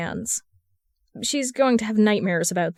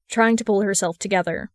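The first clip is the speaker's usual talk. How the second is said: plain reading voice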